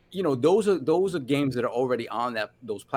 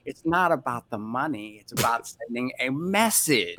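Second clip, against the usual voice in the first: Heath Ledger Joker; 2 semitones lower than usual. Retold or imitated. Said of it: "Heath Ledger Dark Knight voice".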